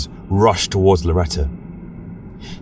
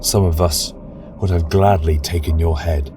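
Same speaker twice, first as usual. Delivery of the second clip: cool, lower, quieter verdict; cold; 3 semitones lower, 3 dB quieter than usual. Acted. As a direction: speak down to her without warmth. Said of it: "he said coldly".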